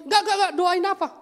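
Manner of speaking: fast, high, loud refusal; exasperated refusal. Acted. Pastor refusing the congregant's plea, exasperated shout. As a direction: rattle off the nos in exasperation.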